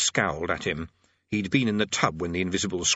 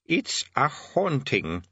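put-on slow, tentative old man; tentative suggestion; 3 semitones higher, much slower than usual. Old Arch-Chancellor ventures an explanation, tentatively. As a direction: venture it slowly. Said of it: "he ventured".

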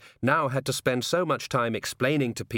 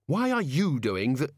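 insistent question; 5 semitones higher than usual. Acted. Susan questions Death, cut off.

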